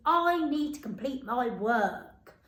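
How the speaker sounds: said slowly and clearly as a model; slow model sentence. Shown as a demonstration. Teacher modelling the sentence slowly for children. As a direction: spell it out slowly for the class. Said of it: "So our sentence today is".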